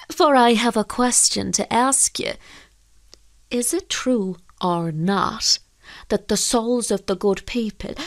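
lightly voiced deferential fisherman; respectful fisherman. Fisherman puts the fairy's question to priest, respectful. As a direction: ask carefully, a touch of formality.

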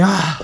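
acted sigh of release; suspiro de alivio. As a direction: let out an "ah" as if dropping a heavy weight. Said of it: "tú haces como que". (suspiro de alivio imitado)

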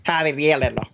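habanero in a put-on Spanish accent. Shown as a demonstration. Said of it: "say it with a little Spanish accent".

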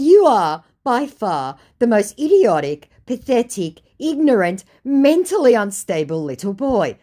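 high, loud, measured list of insults; scathing insult. Retold or imitated. Woman telling off the scammer, scathing. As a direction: land each adjective separately.

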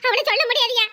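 put-on high, vengeful old aunt's threat; furious aunt. Aunt threatening the attacker to the young man, high angry voice. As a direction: swear revenge on the boy.

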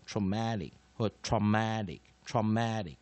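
traumatic first with "tro", then with a fuller "tra"; alternative pronunciations. Shown as a demonstration. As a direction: contrast the first vowel across takes of traumatic. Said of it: "一般来说我们念". (示范 traumatic 第一音节的不同念法)

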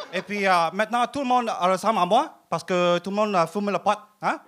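broken French in a Vietnamese accent, played straight; put-on Vietnamese accent. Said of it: "J'y ai tellement cru à l'accent au début".

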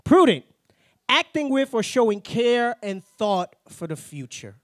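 slow dictionary-definition read. Shown as a demonstration. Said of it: "let's look up prudent real quick".

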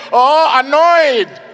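loud, slow, drawn-out realisation; sudden realisation. Acted. Auditioner finally getting the judge's direction, loud drawn-out realisation. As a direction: stretch it out loudly as it dawns.

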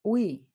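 Уі with the і stressed and у quick. Shown as a demonstration. Teacher demonstrating the diphthong, stress on і. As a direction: glide fast through у and land on і. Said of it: "наголос буде йти на і".

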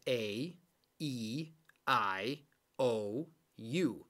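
A, E, I, O, U as alphabet letter names; long A, E, I, O, U with gaps between them; long vowel sounds. Shown as a demonstration. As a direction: list A, E, I, O, U one by one, each long. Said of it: "the way that the letter is pronounced in the alphabet".

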